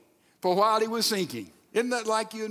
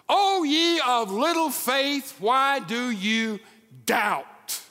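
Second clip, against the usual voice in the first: Jesus gently chiding; 3 semitones higher, much slower than usual. Retold or imitated. Jesus voiced rebuking.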